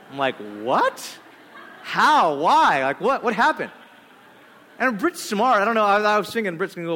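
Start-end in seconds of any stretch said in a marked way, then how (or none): 0.6-3.7 louder, laughing burst of questions; excited disbelief. Retold or imitated. Friend hears the compliment news, excited laughing disbelief. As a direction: fire off amazed questions, half laughing.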